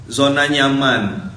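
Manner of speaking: slowly stressed Zona nyaman; slow translation. Shown as a demonstration. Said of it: "Comfort zone, apa?".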